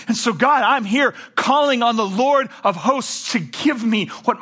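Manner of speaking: building fervent prayer. Acted. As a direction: start earnest and build to calling out to God. Preacher voices Hannah's prayer.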